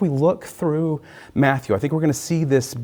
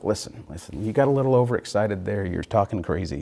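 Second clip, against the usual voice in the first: patronizing; 3 semitones lower than usual. Retold or imitated. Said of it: "He's sort of patronizing him".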